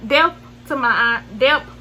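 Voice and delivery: depth said like delp in a Southern accent; Southern twang on depth. Real, not acted. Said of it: "this southern accent of mine".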